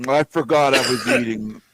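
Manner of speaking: halting, chewing between words; mock talking with stuffed cheeks; mouth-full Tarek impression. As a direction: mumble through a pretend mouthful. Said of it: "impression of Tarek while he's eating".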